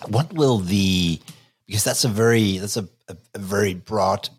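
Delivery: coughing through the words; strained, choking on a drink; choking on coffee. Real, not acted. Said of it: "I'm choking on my coffee".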